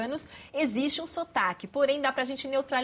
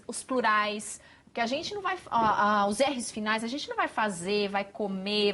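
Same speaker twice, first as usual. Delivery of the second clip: normal talking voice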